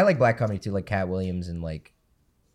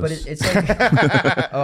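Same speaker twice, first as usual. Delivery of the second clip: bursting into laughter; laughing; 8 semitones higher, 9 dB louder, faster than usual. Real, not acted. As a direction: laugh through the words. Group cracks up at joke.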